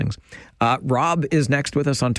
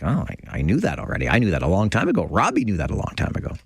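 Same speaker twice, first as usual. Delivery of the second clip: smug know-it-all; 3 semitones lower, faster than usual. Retold or imitated. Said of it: "And I'm like".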